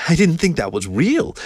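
high voice rising at the end; awed shy woman. A narrator's reading. Keo self-consciously telling him her surprise, in high awed voice.

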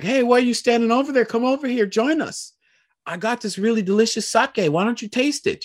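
high, fast cheerful voice of the band leader; imitating Masa. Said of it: "Masa's like".

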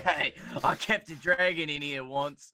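low, slow British impression; deep, drawn-out mock British; bad British accent. Wizard bragging about a dragon, low slow bad British accent. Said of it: "like, the worst British accent".

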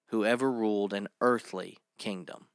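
preacher stressing earthly. Real, not acted. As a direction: press down on the word earthly. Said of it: "I have to stress that word earthly".

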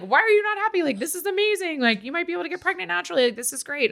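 doctor baffled she isn't thrilled, quoted high and fast; over-the-moon doctor. Retold or imitated. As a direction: gush at her like it's the best news ever. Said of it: "he is over the moon".

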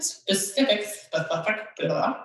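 repeated tries at "specific", then blah blah blah; tongue-tied on "specific", dissolving into nonsense syllables; tripping over a word. Real, not acted. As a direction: stumble on "specific" and give up in blahs. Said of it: "why is that word always troublesome for me".

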